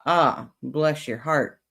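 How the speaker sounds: slow, drawn-out sarcastic sympathy. Shown as a demonstration. Streamer showing chat the Southern put-down, very sarcastic. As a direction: stretch it out with mock pity. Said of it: "mean it very sarcastically".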